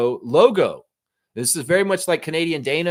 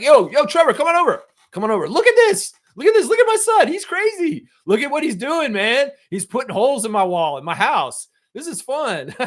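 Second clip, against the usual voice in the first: very high, louder, manic show-off voice; hyped neighbor; 12 semitones higher, 6 dB louder than usual. Retold or imitated. Neighbor drags Trevor in to admire the holes, very high manic voice. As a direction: squeal it like an unhinged proud dad. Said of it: "Is that the energy your neighbor came over with?".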